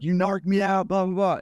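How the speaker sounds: mock yell. Angry laundromat guy accusing the man who called 911, mild mock yell. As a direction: mimic an angry accuser without full volume. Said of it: "he is yelling at the top of his lungs".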